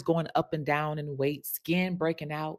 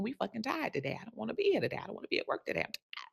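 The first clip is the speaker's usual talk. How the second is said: soft, fading to a whispered "I'm tired"; tired grumble sinking into a whisper; weary complaint; 6 semitones higher, 7 dB quieter, faster than usual. Retold or imitated. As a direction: drag it out, running out of steam.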